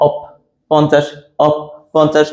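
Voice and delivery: "অপ" set apart before "পঞ্চাশ"; emphasised প sound. Shown as a demonstration. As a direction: bring out the "প" in "অপ" and "পঞ্চাশ". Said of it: "এই প এর উচ্চারণটা একটু বেশি আসছে".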